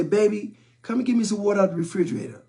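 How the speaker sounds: lightly voiced mom, quick and sweet; a touch of a mother sweetly asking her kid; mom's sweet ask. Mom on the couch asking her son for water, sweetly. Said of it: "mom would say".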